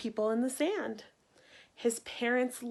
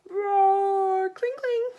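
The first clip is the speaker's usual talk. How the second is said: loud, high roaring battle cry; 9 semitones higher, 7 dB louder, much slower than usual. Acted. Knights and dragon clash, loud roaring charge. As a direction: bellow it like a charging army.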